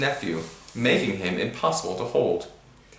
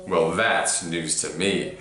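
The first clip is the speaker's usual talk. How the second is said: rising temper; 4 semitones lower, slower than usual. A narrator's reading. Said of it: "his temper rising".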